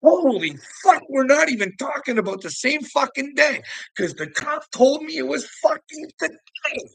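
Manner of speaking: high-pitched, loud retold outrage; exasperated outburst. Arguing with a cop over the wrong day, outraged. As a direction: blow up in high-pitched disbelief.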